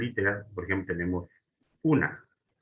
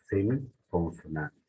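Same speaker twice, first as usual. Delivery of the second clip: semiconsonante drawn out slowly, syllable by syllable; teacher stretching semiconsonante so students catch it; slow teaching demo; 2 semitones lower, slower than usual. Shown as a demonstration. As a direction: spell out semiconsonante slowly for the class. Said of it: "no, semiconsonante".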